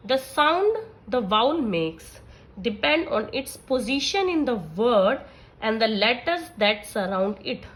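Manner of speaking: very slow, deliberate dictation of a rule; reading a rule aloud. Acted. Teacher dictating the phonics rule to her class, slow and measured. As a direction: read each word slowly so students can copy it.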